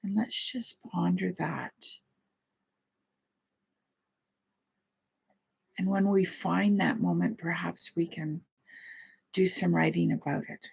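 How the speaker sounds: gentle guided meditation voice with long pauses. Real, not acted. Leads a meditation and prayer.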